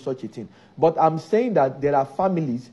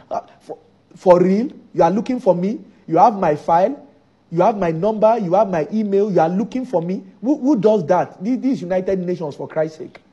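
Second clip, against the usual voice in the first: incredulous. Retold or imitated. Pastor acts the man's disbelief.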